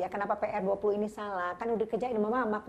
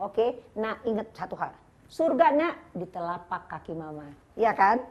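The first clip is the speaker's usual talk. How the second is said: lecturing mother; 4 semitones higher, 5 dB louder than usual. Retold or imitated. Mother voiced lecturing son Ali.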